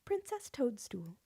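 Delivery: breathy whisper of the name. Real, not acted. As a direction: whisper it to yourself. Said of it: "whispered aside".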